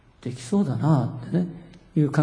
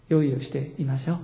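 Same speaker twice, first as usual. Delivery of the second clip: gentle invitation. Real, not acted. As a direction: invite them gently, voice settling down. Restates the command as gentle invitation.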